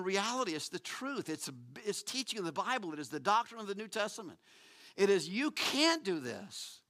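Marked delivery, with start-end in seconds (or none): 5.3-6.8 "can't" drawn out with weight; slow line leaning hard on "can't"; slow, stressed CAN'T. Acted. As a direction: stretch "can't" before the turn. God's words contrasted with human inability.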